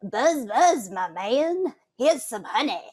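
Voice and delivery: Californian-flavored lilting bee. Pretend. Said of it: "like, up here".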